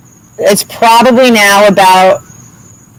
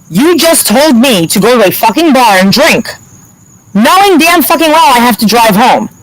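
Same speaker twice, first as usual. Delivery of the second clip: raised pitch, emphatic outrage; exasperated telling-off, pitched up; retold indignant scolding; 5 semitones higher than usual. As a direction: lay into him point by point. Retells scolding officer at police station.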